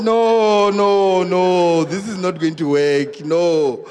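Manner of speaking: loud protesting string of noes, falling in pitch; comic loud outrage; emphatic refusal. Retold or imitated. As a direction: protest loudly, stretching each no. Husband refuses what he overheard.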